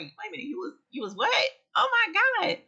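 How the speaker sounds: high, startled retelling of her shock; retold alarm. Viewer in hospital, she recalls her high alarmed shock. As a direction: gasp it out as if hearing bad news again. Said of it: "when I was like".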